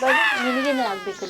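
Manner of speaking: high, sharp shout back at the meddler; angry shout. Acted. Tenant snaps at gossiping neighbour. (ಜೋರಾದ ಸಿಟ್ಟಿನ ಕೂಗು)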